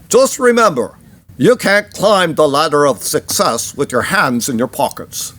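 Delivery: a rough, half-done Austrian accent, imitating Schwarzenegger. Host quizzing listeners on who said it, in a lightly done Austrian accent. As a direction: do a passable Austrian accent on the quote. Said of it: "That was, that was a Austrian accent".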